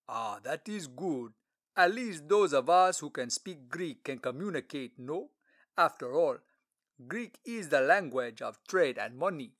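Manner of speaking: a grand court treasurer, curious and gracious; stately official. Acted. Treasurer voiced.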